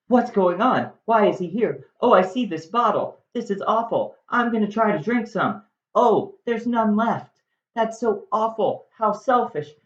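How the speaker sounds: a mock-dramatic young girl, pitched high up; high Juliet voice. Teller voices Juliet waking beside dead Romeo, high mock-dramatic. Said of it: "She's like".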